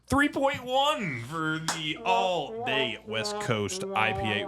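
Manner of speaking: drawn-out announcer reveal of the score; mock announcer. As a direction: announce it like a big result.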